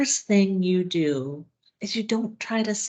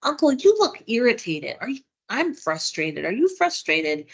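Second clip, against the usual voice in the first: gentle validation; 3 semitones higher than usual. Shown as a demonstration. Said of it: "And maybe you just say".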